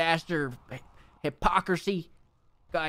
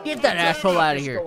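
angry shout; 3 dB louder than usual. Real, not acted. Manager ordering the nuke shouter out, angry shout. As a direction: bark at security to remove him. Throwing out nuke rumor guy.

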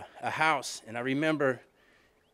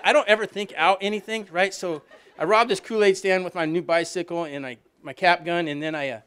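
higher and louder, laughing through the words; 5 semitones higher, 7 dB louder than usual. Real, not acted. Telling the crowd about the Kool-Aid stand, laughing. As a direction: let the laughter break into the story.

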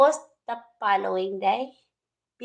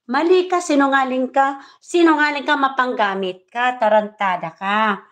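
angry accusation; 2 semitones higher, 4 dB louder than usual. Real, not acted. Vlogger lashes out at lying rival, angrily. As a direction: hurl the insults at her.

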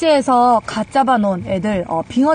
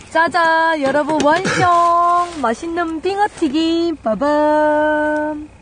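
fanfare announcement; 4 semitones higher, much slower than usual. Acted. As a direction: present the dish like a fanfare. Presenting finished dish.

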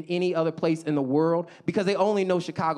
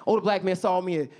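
usual speaking voice

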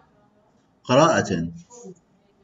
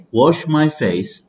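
slow and higher, my stressed; slow model phrase; 5 semitones higher, much slower than usual. Shown as a demonstration. Teacher leading a repeat-after-me drill, slow. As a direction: draw it out for repeating. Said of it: "read with me".

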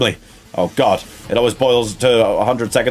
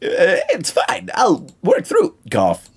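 coughing ghost voice; 3 semitones higher, much slower than usual. Acted. Ghost coughing through prophecy.

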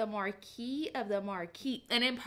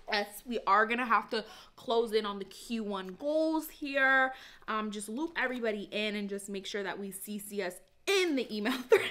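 corporate voice. Pretend. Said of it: "summoning my corporate Aaron".

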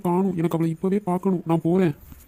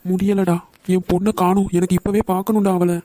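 put-on weeping for a missing child; crying; 3 semitones higher than usual. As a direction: drag it out through tears. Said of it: "நீ அழாதப்பா".

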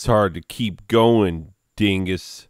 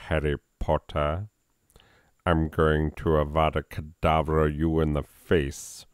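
Severus Snape; 2 semitones lower than usual. Acted. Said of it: "If I try to do a, uh, Severus Snape".

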